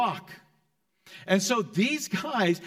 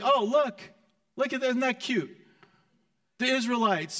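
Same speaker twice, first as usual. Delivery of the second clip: mocking Philistines; 5 semitones higher than usual. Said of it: "what the Philistines end up saying is like".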